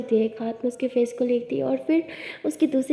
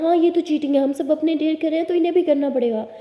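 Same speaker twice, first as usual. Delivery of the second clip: a bit louder, indignant group yell; friends shouting; 4 semitones higher, 5 dB louder than usual. A narrator's reading. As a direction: call out that it's cheating, raised voice. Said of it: "friends भी चिल्लाने लगते हैं".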